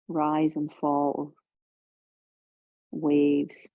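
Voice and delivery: unhurried yoga instruction, pausing between phrases; guided relaxation. Real, not acted. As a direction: ease them calmly into the stretch.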